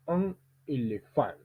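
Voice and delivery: "Un éléphant" measured, weight on "phant"; final-syllable stress. Shown as a demonstration. Teacher drilling an isolated word, final stress on "éléphant". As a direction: land on the end of "éléphant". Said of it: "Entraînement avec un mot isolé".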